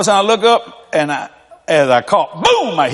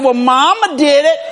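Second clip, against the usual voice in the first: mock retort; 7 semitones higher than usual. Husband answers angry wife Kathy, laughing mock shout. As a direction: fire it back at the wife half laughing.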